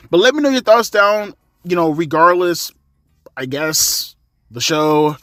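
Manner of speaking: winded, breathing hard. Real, not acted. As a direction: talk while catching your breath, out of breath. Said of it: "You can hear that I'm getting out of breath".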